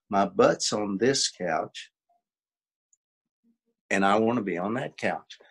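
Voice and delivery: "my butt's on this couch" said slow and deliberate, each word drawn out; accentuated slowly. Shown as a demonstration. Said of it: "I have you accentuate that".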